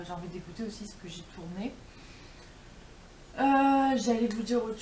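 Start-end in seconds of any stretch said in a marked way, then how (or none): 0.0-1.7 whispering. Real, not acted. Mother beside sleeping children.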